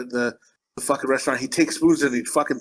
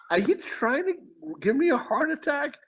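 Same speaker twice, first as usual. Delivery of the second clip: put-on higher playful kid voice; mock kids' voice; 11 semitones higher than usual. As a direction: squeak it out like a scheming kid. Kids voiced, exasperated.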